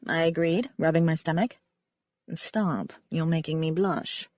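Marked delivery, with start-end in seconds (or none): 2.3-4.3 joking. Acted. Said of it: "Wynne joked".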